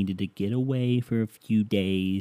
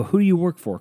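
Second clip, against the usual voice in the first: higher, louder, indignant demand; indignant challenge; 8 semitones higher, 5 dB louder, faster than usual. Retold or imitated. To the pizza driver, indignant shouted question. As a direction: challenge him sharply. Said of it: "I go".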